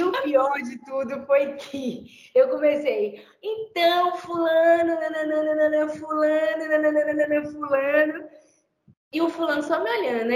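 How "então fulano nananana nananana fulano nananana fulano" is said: imitating a confident, emphatic call of the name; mildly raised, sure-of-itself retold delivery; lightly mocked emphatic greeting by name. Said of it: "quando eu falei um fulano enfático".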